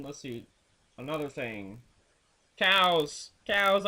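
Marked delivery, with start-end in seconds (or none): 2.6-3.3 louder, higher burst of disgust; ranting to viewers about hated cows, loud. Real, not acted. 3.5-3.9 higher, louder repeat of cows; ranting to viewers about hated cows, loud repeat; louder disgusted repeat. Real, not acted.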